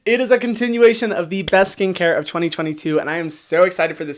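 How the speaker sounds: bitten tongue voice. Pretend. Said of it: "gonna have to talk like this".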